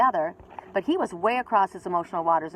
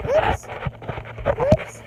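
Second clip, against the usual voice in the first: squeaky oops, far higher; a sudden high squeak of a mistake; playful oops. Real, not acted. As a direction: pipe it up high like a cartoon slip. Playful slip on camera.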